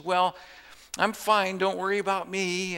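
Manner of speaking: a hint of a weak old lady insisting she's fine; mild imitation of a frail mother brushing off worry. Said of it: "she sounds real frail".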